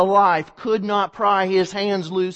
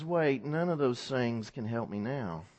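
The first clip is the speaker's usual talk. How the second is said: sudden quiet realization; 7 semitones lower, 8 dB quieter than usual. Acted. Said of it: "he realizes".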